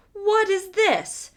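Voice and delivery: a giant baffled, drawing it out; puzzled giant. A narrator's reading. Giant puzzled as the tailor falls from the tree, slow and high.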